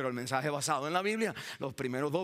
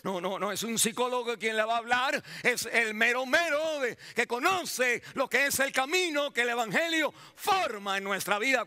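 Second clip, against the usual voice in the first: raised, driving sermon delivery; emphatic preaching; 6 semitones higher than usual. Acted. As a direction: preach it with rising force.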